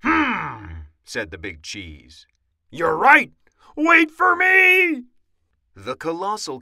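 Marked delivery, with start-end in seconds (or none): 0.0-0.9 drawn-out falling hum; a considering hum that slides down; pondering. A narrator's reading. Big Cheese considers troops' answer. 2.7-5.0 loud cry leaping to a high squeal; shrieking, stretched-out plea; panicked yell. A narrator's reading. Big Cheese flees after troops.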